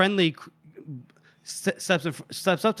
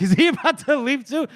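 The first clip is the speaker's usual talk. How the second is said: laughing disbelief; 9 semitones higher, 4 dB louder than usual. Retold or imitated. Monza panics, Shivers might leave.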